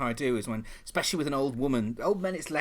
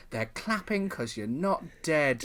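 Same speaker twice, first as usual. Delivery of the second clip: smiling deadpan; 3 semitones higher, slower than usual. Retold or imitated. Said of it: "lean in and with a big smile and go".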